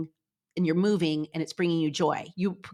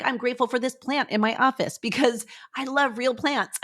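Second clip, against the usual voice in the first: higher, bubbling with a laugh; laughing gratitude; 4 semitones higher than usual. Retold or imitated. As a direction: giggle through the example. Example gratitude quote, laughing.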